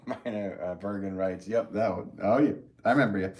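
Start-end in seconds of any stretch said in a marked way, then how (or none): 1.5-3.3 put-on reading chat in a Boston accent; light Boston accent, dropped r's. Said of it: "Here we go with that Boston accent again".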